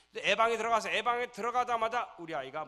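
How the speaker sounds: loud, high, impassioned telling; loud passionate sermon voice; preaching at full force. Real, not acted. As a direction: build to the climax. Climax of the story, preaching.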